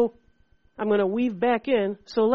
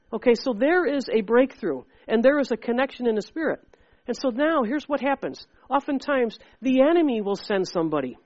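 ordinary delivery

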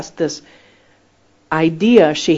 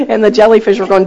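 louder, words broken by laughter; laughing while telling; 4 semitones higher, 7 dB louder than usual. Real, not acted. Preacher telling the snorkeling story, laughing loudly. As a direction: tell it through real laughter.

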